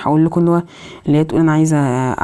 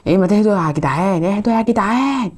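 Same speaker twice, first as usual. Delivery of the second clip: exasperated plea; 4 semitones higher than usual. Real, not acted. Player to the pursuers chasing him, exasperated rising plea. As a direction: voice climbing higher as the plea repeats.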